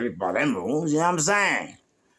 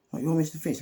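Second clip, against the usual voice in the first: higher-pitched incredulous question; imitated disbelief; 7 semitones higher than usual. Stranger meeting the famous Mister Fish, incredulous. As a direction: mimic a surprised stranger, pitched up.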